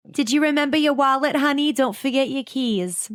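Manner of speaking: high, gentle motherly reminder; gentle mom voice. Retold or imitated. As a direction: fuss over him like a doting mom. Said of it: "gently saying things like".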